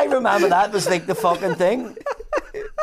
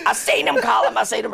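weary mother; 5 semitones higher, 3 dB louder than usual. Retold or imitated. Voicing mother again.

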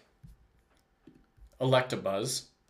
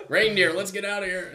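evil Santa; 9 semitones higher, 6 dB louder than usual. Pretend. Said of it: "on his sleigh".

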